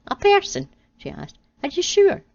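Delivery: very high, loud disbelief; stunned. Acted. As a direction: gasp out the question. Eve stunned.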